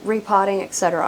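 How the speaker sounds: breathless from lifting heavy plants; winded, catching breath between words. Real, not acted. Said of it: "I am so out of breath".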